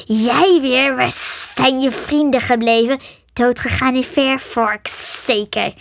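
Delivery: a light snake voice, cheerful; mock the girl, pleased; hissing snake. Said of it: "siste de slang opgewekt". (sissende slang, opgewekt)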